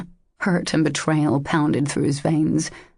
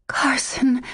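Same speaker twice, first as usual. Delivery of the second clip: broken whisper; 8 semitones higher than usual. A narrator's reading. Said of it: "she whispered brokenly".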